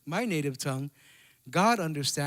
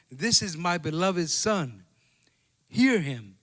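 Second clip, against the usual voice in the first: voice of God; 4 dB louder, slower than usual. Acted. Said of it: "a voice came out of the cloud saying".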